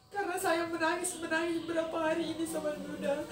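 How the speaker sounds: fighting back tears; real tears breaking through; tearful. Real, not acted. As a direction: voice breaking while telling of loss. Tells of grieving for father.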